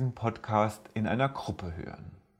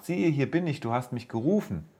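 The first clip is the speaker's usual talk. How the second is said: put-on higher, eager boy's voice; young Samuel; 4 semitones higher than usual. Samuel answering the call he hears, higher eager boy voice. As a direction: answer brightly like a willing boy.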